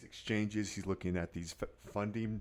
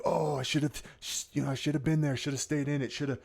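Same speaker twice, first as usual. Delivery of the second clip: regretful trader; 7 semitones higher, 5 dB louder than usual. Retold or imitated.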